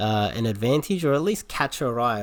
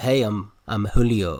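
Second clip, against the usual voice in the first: put-on romantic male voice, lower and slower; 3 semitones lower than usual. Retelling how a guy introduced himself to a woman, imitating Julio's romantic voice. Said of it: "He's got the voice and everything".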